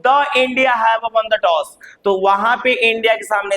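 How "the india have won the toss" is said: The India have won the toss, drawn out slowly; slow example. Shown as a demonstration. Teacher contrasting two example sentences, slowly. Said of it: "अब मैं वही बोल रहा हूँ".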